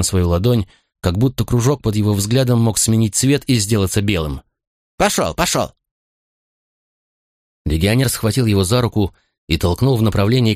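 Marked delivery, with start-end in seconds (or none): 5.0-5.7 gruff barked parade orders. A narrator's reading. Legionary shoves condemned soldier.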